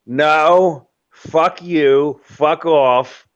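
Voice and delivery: lightly voiced wife rejecting her husband; mock angry wife. Husband retells wife's mock angry rejection. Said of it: "And she's like".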